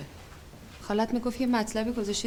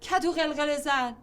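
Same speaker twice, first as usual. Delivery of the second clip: indignant echo; 4 semitones higher than usual. Acted. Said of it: "رول خاله پیرزن مهربون کدو قلقله زن".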